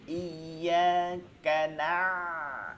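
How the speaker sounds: না with the ayn pushed inward; slow ইয়াকা না, sinking the end of না into the throat; drawn-out correcting model of a throaty না; deep ayn. Shown as a demonstration. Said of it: "আইনটা কিন্তু যায় নাই ভিতরে".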